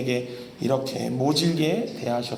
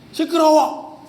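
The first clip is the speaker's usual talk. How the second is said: higher, louder fed-up yell; annoyed shout; 9 semitones higher, 5 dB louder, slower than usual. Retold or imitated. Crowd fed up with the blind man's shouting, loud complaint. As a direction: yell at him that he's too noisy. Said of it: "이렇게 말했어요".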